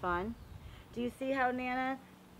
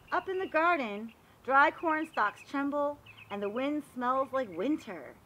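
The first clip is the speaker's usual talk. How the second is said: storybook narration; 4 dB louder than usual. Acted. Teacher reading a garden book aloud to the class, storybook voice. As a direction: read it like a picture book for little kids. Reads picture book to children.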